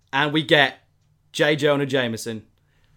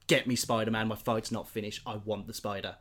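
weak, much softer defiant mutter; fading villain; 4 semitones lower, 8 dB quieter than usual. Retold or imitated. Wounded Gargan defying the police, fading away softly. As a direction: fade out while still defiant.

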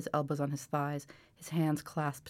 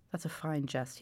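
softer, hurting, a pained half-voice; mild whisper; 5 dB quieter than usual. Acted. Wounded soldier answers the old man, softly in pain. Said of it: "he whispered".

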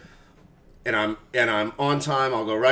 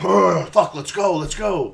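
pumped up; 4 semitones higher, 3 dB louder, slower than usual. Retold or imitated. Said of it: "I'm like".

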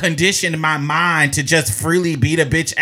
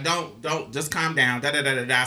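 low, soft soothing murmur; retold calming down; 5 semitones lower, 8 dB quieter than usual. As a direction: hush her gently, holding her back. Friend calming someone during scuffle.

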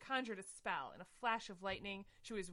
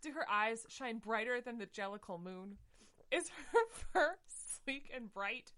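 higher, louder hammed-up jealous questions; jealous cat queen; 3 semitones higher, 3 dB louder than usual. Victoria quizzing her friend about the rival, hammed-up. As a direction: gush out each question.

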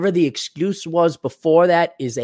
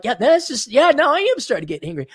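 mock angry; 10 semitones higher than usual. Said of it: "now I'm getting angry".

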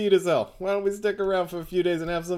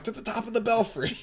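laughing mock shout; 7 semitones higher than usual. Joining the belfry joke.

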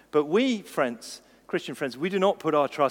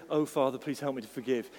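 soft, sugary holier-than-thou prayer; mock pious prayer; 2 semitones lower, 4 dB quieter than usual. Preacher mocking a fake pious prayer, softer and sweet. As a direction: put on a pious churchy voice.

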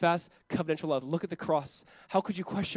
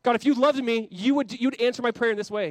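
put-on pleading child voice, higher and louder; whiny child; 6 semitones higher, 6 dB louder than usual. Preacher mimics a child demanding things of God, whiny. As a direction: beg God like a demanding kid. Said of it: "This is what children do".

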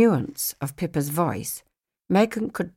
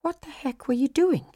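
imagined Aunt Nora; 9 semitones higher than usual. Retold or imitated. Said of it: "She'd probably ask".

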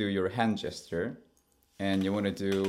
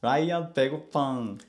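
cute aegyo; 5 semitones higher than usual. Shown as a demonstration. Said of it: "And third step".

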